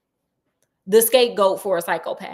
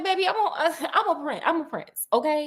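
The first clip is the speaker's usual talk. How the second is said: laughing spoiled prince; 6 semitones higher, 3 dB quieter than usual. Retold or imitated. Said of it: "Prince Brett is like".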